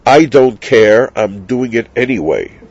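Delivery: mildly arrogant, defiant brush-off; scornful. Acted. Violator answers the witnesses' warning, mildly scornful.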